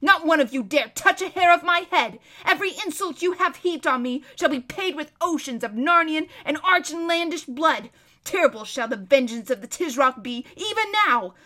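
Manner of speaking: loud, high tirade building to shrieked warnings; ranting threat. Acted. Captive prince threatening his captors with vengeance, ranting. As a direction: build from menace to frenzied shouting.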